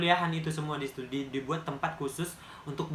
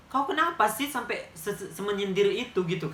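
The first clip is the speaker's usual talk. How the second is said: baffled; 4 semitones higher than usual. Real, not acted. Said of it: "Dia nyindir kayak gitu".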